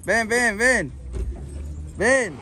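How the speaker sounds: repeated coaxing call; calling someone over. Real, not acted. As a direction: urge him to come along. Keeps calling him over.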